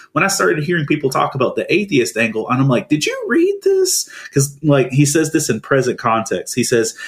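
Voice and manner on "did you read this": much higher, slow disbelieving question; incredulous. Retold or imitated. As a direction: ask it like you can't believe they missed it. Incredulous reaction to atheist angle.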